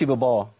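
"ببا" with the second ba thickened to a dark "bo"; wrongly heavy ba. Shown as a demonstration. Teacher showing the mistake, thickened ba. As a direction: darken the vowel after the ba in "ببا". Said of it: "نرقق الباء".

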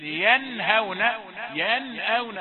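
ينهون and ينأون with the nun fully sounded; clear nun. Shown as a demonstration. Teacher demonstrating izhar examples. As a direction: pronounce the nun clearly before the throat letter. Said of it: "هذا إظهار".

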